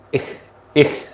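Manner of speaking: "ich" with tongue held back, not sh; German ich sound. Shown as a demonstration. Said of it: "Have you learned how to pronounce ish".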